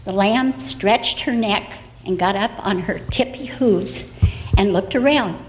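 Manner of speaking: put-on bright storyteller voice for little kids; reading to children. Storyteller reading an Easter tale to the children. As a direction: tell it gently like a bedtime story.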